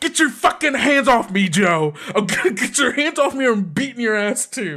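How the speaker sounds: high-pitched angry threat, played in character; angry yelling. Nash held back by Joe, threatening to beat him, angry yelling. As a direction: fight to break free as you yell. Nash struggles in Joe's hold.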